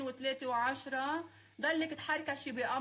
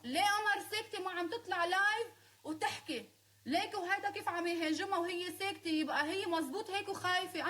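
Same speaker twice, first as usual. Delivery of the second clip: mocking gossips; 5 semitones higher than usual. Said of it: "بيقولوا انه".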